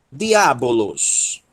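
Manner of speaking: "Diabolos" read slowly with clear vowels; slow modeling. Shown as a demonstration. Teacher repeating "Diabolos" slowly for class. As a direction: pronounce "Diabolos" slowly and evenly. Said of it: "teacher repeats slowly".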